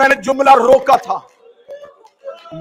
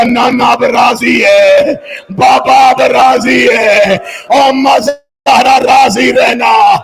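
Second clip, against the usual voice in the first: weeping cry; much slower than usual. Acted. Husain weeping farewell, slowed.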